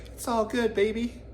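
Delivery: high, breezy hippie voice; easygoing surfer drawl; laid-back cool dude. Retold or imitated. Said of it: "You'd think we'd just be like".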